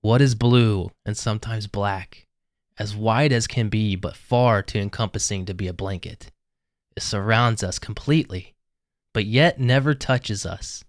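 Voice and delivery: slow, mysterious riddle reading. Acted. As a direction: read it like an ancient riddle. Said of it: "this is what it says".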